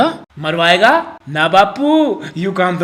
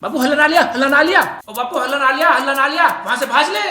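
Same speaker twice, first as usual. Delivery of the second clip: calling out; 5 semitones higher, faster than usual. Acted. Son calling out to father.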